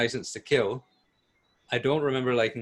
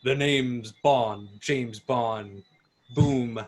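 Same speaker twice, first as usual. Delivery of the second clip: slow, dramatic catchphrase with a pause; milk it for effect, pause before the name; hammy Bond line; much slower than usual. Retold or imitated. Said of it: "he wouldn't say".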